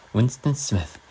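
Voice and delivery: put-on British reading accent. Streamer reading Orwell to viewers in a British accent. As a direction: read it like a British narrator. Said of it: "I'll do it in a British accent".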